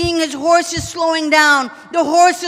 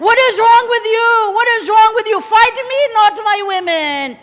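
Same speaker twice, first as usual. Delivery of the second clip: screaming at them; 3 semitones higher than usual. Retold or imitated. Hussein screaming at the soldiers attacking his tents, raised desperate cry. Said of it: "He's screaming at them".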